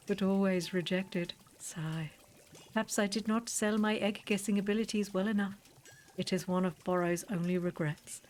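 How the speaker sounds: lightly voiced formal shopkeeper; a hint of an overly polite old shopkeeper; Borrow. Streamer reading the shopkeeper's lines to the player, lightly voiced.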